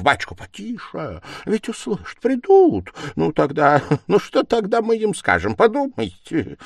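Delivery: high, urgent, alarmed plea; horrified hushing. A narrator's reading. Investigator afraid they will be overheard, horrified hushing. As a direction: urge him to hush in panic, half-voiced. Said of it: "прошептал в ужасе".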